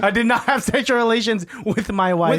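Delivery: president's denial in a mock Kazakh accent; hammy Borat-style foreign accent. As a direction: do a silly foreign-accented statesman. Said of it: "Bill Borat over here?".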